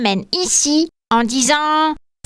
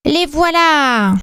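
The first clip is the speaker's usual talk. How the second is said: drawn-out, delighted discovery; exclaiming; 4 semitones higher, slower than usual. Acted. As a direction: call out happily, slowly. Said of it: "s'écria Lucien Lutin".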